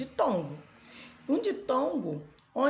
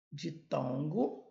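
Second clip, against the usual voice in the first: slow naming; 4 semitones lower, 4 dB quieter, slower than usual. Shown as a demonstration. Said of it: "é chamado".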